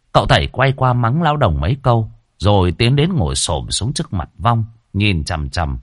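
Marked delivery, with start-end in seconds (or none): none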